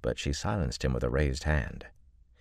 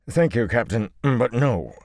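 half strangled; 9 semitones higher, 6 dB louder than usual. Acted. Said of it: "sounding half strangled".

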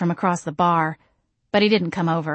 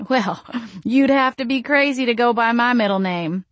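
nervous laugh; 5 semitones higher than usual. Acted. Jane laughs nervously, still babbling.

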